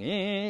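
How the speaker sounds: high, squeaky "eh" noises; mock longing noise. Preacher acting out passing a bike store, mock longing. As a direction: make a little high sound of being tugged toward something.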